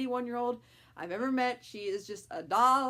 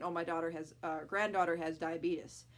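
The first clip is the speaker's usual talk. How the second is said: grandma's offhand, softer mention; casual; 4 semitones lower, 3 dB quieter than usual. Retold or imitated. Grandma just telling people about her granddaughter, casual. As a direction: toss it off casually, "diabetes" as dye-uh-BEET-us. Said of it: "where she's a little more casual about it".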